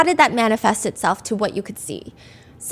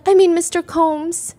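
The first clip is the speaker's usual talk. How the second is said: panicked correction; 6 semitones higher, slower than usual. Retold or imitated. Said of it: "is panicked and is like".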